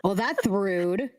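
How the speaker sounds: put-on lisping scarecrow kid. Kid takes offence at the friend, lisping. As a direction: drag it out, affronted and lisping. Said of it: "The lisp".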